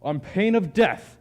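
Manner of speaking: man in a dragon suit faking a loud dragon voice; fake dragon voice. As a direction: bellow it like a fearsome dragon to scare him off. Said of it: "Your voice sounded different a moment ago".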